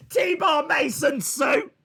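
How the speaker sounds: slow, loud hammed-up yell; mock shouting. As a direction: drag out the name and roar it. Mock cheering continues.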